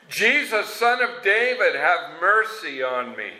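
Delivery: high pleading call to Jesus, fading at the end; a blind beggar calling out for mercy; crying out. Retold or imitated. Blind beggar calling to passing Jesus, high pleading cry. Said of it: "he began to cry out and say".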